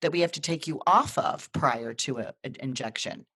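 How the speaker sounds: excited nurse. Retold or imitated. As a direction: deliver good news like it can't wait. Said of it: "She goes".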